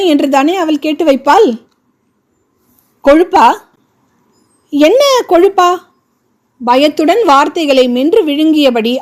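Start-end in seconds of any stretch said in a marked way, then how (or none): 3.0-5.7 angry. A narrator's reading. Angry man confronting woman.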